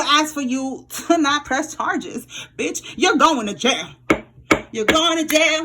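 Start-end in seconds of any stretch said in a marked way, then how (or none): 2.6-3.9 slow, drawn-out mock verdict; slow taunt. Taunting the wrongdoers. 4.7-5.6 higher, gleeful repeat of the sentence; gleeful verdict. Pretend. Taunting the wrongdoers.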